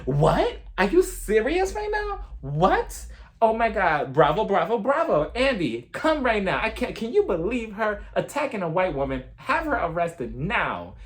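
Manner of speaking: high, hammed-up freakout; mock meltdown. Vlogger mocking Sutan spiraling out of control, high freakout. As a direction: squeal in fake outrage. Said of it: "continues spiraling out of control".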